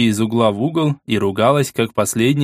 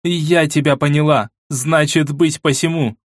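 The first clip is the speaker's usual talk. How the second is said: higher, icy royal resolve; cold and metallic; 5 semitones higher than usual. Acted. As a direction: let the voice turn to steel. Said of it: "в голосе королевы послышался холод и металл".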